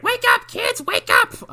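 very high mock street holler; high-pitched pretend wake-up yell; calling out. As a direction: squeal it like a running kid rousing the block. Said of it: "just running and going like".

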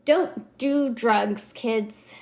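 slow, measured public-service warning; drawn-out mock warning to kids; mock PSA. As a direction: deliver it like a PSA, word by word. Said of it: "it's an all-around P S A".

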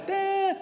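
long high monitor tone; sustained high-pitched beep; imitated flatline beep. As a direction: mimic a heart monitor flatlining. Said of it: "pum, aí aparece".

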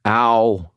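pained, irritated ow; an annoyed, hurting grunt of pain. Acted. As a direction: grumble it like it explains everything.

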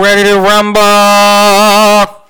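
big, slow, booming ring announcer call. Pretend. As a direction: drag out the rumble like a boxing announcer. Boxing announcer intro line.

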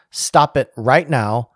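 slow, hammered quoted order; all-caps emphasis. Retold or imitated. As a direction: separate each word firmly. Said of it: "all caps".

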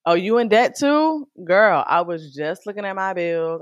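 light up at the shared struggle; relieved surprise. Retold or imitated. Imagined listener relating.

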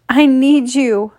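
high, slow, loud pleading; moaning plea. A narrator's reading. Narrator voices woman telling lover her need, moaning. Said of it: "I moan".

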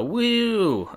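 high, loud little cheer; excited anime fan. Real, not acted. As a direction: whoop it up like a fan. Cheering about convention news.

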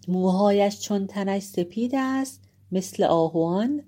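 declaimed, celebratory tribute; ceremonial praise. A narrator's reading. Old nurse hails the lord on his son's birth, ceremonial praise. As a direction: proclaim a formal blessing with measured grandeur. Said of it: "دایه او را درود و آفرین گفت".

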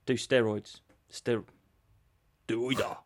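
low, halting mock Japanese accent; attempted Japanese accent. Promoter answering an injured fighter, in a halting mock Japanese accent. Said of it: "can I do my Japanese voice?".

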